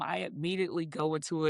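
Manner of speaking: ordinary talk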